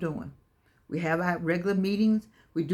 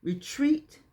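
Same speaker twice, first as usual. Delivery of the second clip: call and response; slower than usual. Shown as a demonstration. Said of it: "Say it again".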